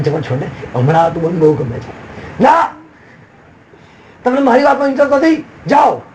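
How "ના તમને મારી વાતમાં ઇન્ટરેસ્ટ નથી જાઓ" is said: mock lover's outburst. Acted lovers' quarrel.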